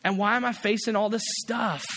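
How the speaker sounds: a hurt servant whining at God; whiny complaint. Retold or imitated. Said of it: "pity party with God".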